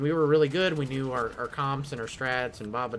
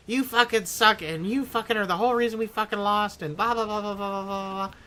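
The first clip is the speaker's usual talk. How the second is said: imitating a teammate tearing into him; mock angry yelling; 7 semitones higher than usual. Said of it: "she really laid into me".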